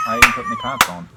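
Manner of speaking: hammed-up Australian accent. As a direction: play a put-on Aussie. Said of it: "keep doing the accent".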